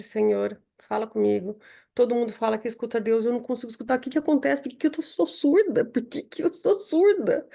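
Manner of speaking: a retold cry to God, pleading and hurt; retold pleading prayer.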